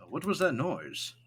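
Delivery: alarmed NPC voice. Acted. Thatcher asks at night.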